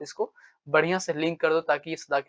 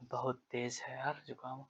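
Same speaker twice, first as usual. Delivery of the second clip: pinching nose; 3 semitones lower, 16 dB quieter than usual. Real, not acted. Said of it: "मैं नाक को दबा रहा हूँ".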